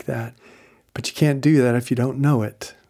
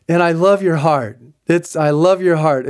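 a touch louder, mildly raised tender delivery of love your heart; voice of God; 4 semitones higher, 5 dB louder than usual. Retold or imitated. God's words retold to friend, lightly raised tender voice. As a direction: speak it as God, gently emphatic. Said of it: "And now God just says".

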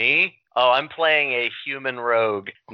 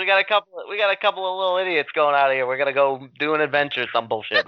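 bad New York accent. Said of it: "reminded me of Joe Pesci and Goodfellas".

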